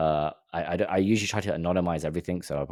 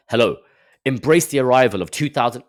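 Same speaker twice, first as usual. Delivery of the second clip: mock corporate speak; 3 semitones higher, 4 dB louder than usual.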